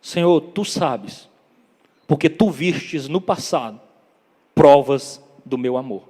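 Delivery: slow, deliberate avowal; measured, weighty appeal to the Lord; earnest plea. Retold or imitated. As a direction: spell out the plea slowly, with pauses. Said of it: "é como se Pedro estivesse assim".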